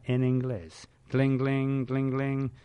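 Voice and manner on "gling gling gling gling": playful spoken ring-ring of a phone; phone ringing noise. Pretend. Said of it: "otra vez te voy a llamar".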